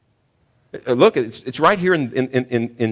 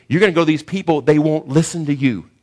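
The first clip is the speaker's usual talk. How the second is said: louder and higher, a stern charge; stern warning; 6 semitones higher, 5 dB louder than usual. Acted. Preacher voicing God warning Isaiah, louder. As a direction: warn him they won't listen.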